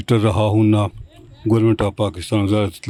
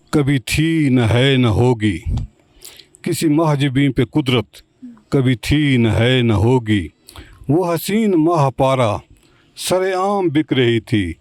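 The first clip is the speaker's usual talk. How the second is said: slow ghazal recitation; 2 semitones higher than usual. Acted.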